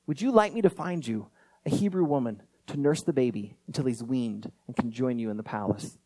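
understated, polite request; respectful request. Retold or imitated. Sister offering Pharaoh's daughter a nurse, respectful request. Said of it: "comes out and with respect says".

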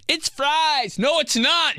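high, loud mock squabble; mock argument. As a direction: argue it back way up high.

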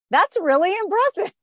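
imitating Namjoon. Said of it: "And he's like".

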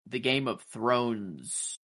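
slow, leaning on "Thrones" and its final s; stress on plural Thrones. Shown as a demonstration. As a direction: draw out "Thrones", hitting the plural s. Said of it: "like, plural".

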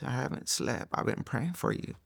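soft, breathy near-whisper of her words; hushed near-whisper. Retold or imitated. Lady confessing to James she prayed, in a hushed whisper. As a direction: murmur it like a tired confession. Retelling the praying lady's words.

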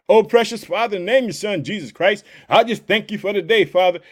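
rhythmic prayer voice repeating Father; preacher praying for the world. Acted. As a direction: pray over the listeners, pleading. Leads prayer.

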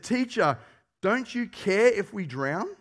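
frightened disciples calling for help; panicked plea. Acted. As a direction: plead in alarm, slowly on the last words. Panicked disciples wake Jesus.

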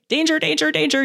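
high-pitched playful danger warning; mock alarm. Mock alarm about unchaperoned teens.

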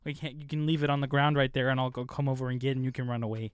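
lightly put-on Canadian accent, apologetic; a hint of an overly polite Canadian. Joking to cohosts, mild Canadian accent, apologetic. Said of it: "You sound like a Canadian".

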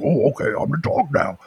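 lightly voiced storybook dog; dog character. Shown as a demonstration. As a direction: do a little dog voice for a child. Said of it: "You're gonna do the dog".

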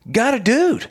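high-pitched stand-up delivery, imitated; retold comedian. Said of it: "he's a comedian".

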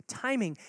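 "timing" set apart and leaned on; one word given its own weight; stressed keyword. Shown as a demonstration. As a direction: drop "timing" alone and firm so they write it down. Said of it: "write down that word in your notes".

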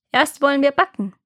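high, coaxing witch voice; scheming witch. A narrator's reading. Witch luring Gretel to the oven, coaxing. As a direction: lure her with a high, innocent pretence.

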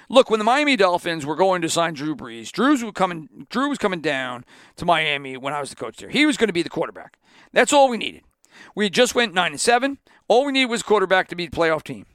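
lightly put-on Southern coach accent, fast; terrible Nick Saban accent. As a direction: do a bad Saban impression. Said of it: "This is my terrible Nick Saban accent".

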